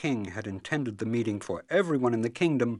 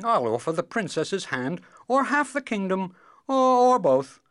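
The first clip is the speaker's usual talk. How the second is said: high, louder royal offer; bargaining king; 12 semitones higher, 10 dB louder than usual. Acted. King offers hand or half the kingdom, bargaining. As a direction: raise the offer haltingly as the king.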